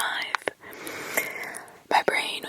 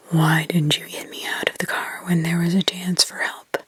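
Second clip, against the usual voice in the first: put-on demonic child; 5 semitones lower, 4 dB louder than usual. Possessed girl accusing Mark, lower demonic whisper. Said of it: "it was demonic in others".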